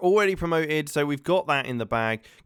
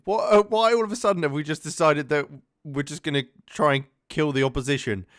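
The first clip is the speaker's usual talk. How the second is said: loud, incredulous rant at his own team; exasperated disbelief; 5 dB louder than usual. Real, not acted. Manager watching his side go down to nine men, exasperated loud disbelief. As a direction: vent at the players going mad. Second red card, disbelieving outburst.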